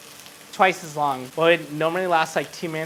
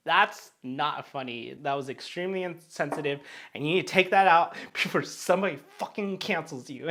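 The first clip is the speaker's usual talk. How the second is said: scolding sober self; 5 dB quieter than usual. Retold or imitated. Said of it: "Sober Me's like".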